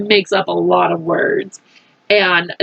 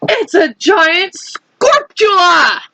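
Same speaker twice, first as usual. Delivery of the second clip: panic; 10 semitones higher, slower than usual. Acted. Fire chief panicking.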